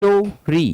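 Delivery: स्टोरी split as स्टो, री with a gap; two separate beats on स्टोरी; split into syllables. Shown as a demonstration. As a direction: sound out स्टोरी for a class. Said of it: "टू syllabic word है".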